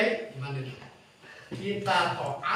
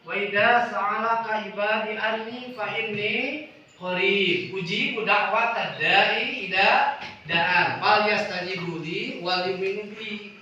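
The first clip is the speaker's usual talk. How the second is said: louder, measured verse recitation; Quran recitation; 6 dB louder than usual. Acted. Preacher quoting Al-Baqarah to listeners, louder recitation.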